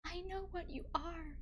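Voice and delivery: high, melodramatic heroine; dramatic reading. Acted. Streamer as Twilight heroine confronting him, high and dramatic. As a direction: play the heroine's accusation high. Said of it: "that is a dramatic reading".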